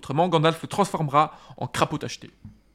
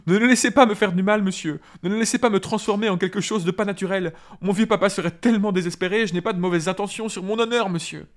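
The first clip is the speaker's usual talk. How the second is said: higher, louder pleading in fear; trembling Sam; 6 semitones higher, 4 dB louder than usual. A narrator's reading. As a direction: beg not to be harmed. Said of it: "s'écria Sam tremblant". (Sam tremblant, supplie d'une voix aiguë)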